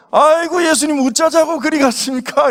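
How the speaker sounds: high-pitched mock wail; acted weeping lament. Disciples asking dead Jesus why he went, acted weeping. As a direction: imitate a mourner crying out in grief. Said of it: "이러면서 막 울었잖아요".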